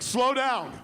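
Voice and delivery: sudden loud outburst; amazed interruption. Acted. Executives amazed at the pitch.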